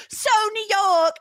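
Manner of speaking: mock gushing. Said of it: "they're like".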